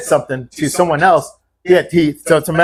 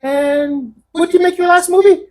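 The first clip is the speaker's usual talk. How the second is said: higher, snide jab; 14 semitones higher than usual. Retold or imitated. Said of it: "He goes".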